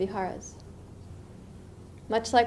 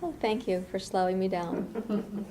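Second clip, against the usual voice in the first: calm gratitude; 5 dB quieter, slower than usual. Retold or imitated. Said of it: "I think".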